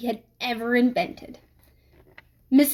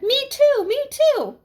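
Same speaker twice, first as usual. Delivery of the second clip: put-on eager kids' chorus; 13 semitones higher than usual. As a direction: chime in like a bunch of eager kids. Kids chiming in together.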